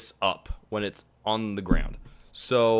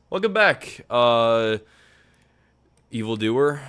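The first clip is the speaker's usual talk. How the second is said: hero voice; 7 dB louder, slower than usual. Pretend. Greeting player in game voice.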